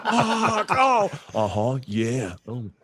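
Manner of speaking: high, loud fake moans; hammed-up moaning. Shown as a demonstration. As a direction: ham up the porn moans. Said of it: "we'll do".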